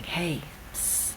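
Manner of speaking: soft, whispered psst for attention; little whisper. Acted. Inner nudge seeking the listener's attention, whispered. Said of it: "a little whisper saying".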